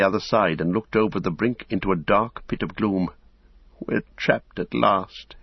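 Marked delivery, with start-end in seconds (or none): 3.8-5.4 slow, higher, giving-up voice; despairing. Acted. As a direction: let the hope drain out slowly. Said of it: "sank to the ground".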